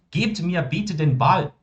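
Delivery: very slow, every German word laid out clearly; slow model sentence. Shown as a demonstration. Teacher modelling German for students, very slow and clear. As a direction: spell the sentence out slowly for the class. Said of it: "posso botar um bitte".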